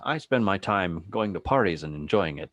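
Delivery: a hint of carefree rich man; Bruce Wayne voice. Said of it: "that's how he sounds".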